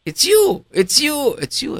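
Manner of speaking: high, loud excited yell of recognition; excited screaming. Retold or imitated. Lowe's guard spotting the speaker, screaming loud and high. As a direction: shout it out like you just spotted a celebrity. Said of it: "starts screaming".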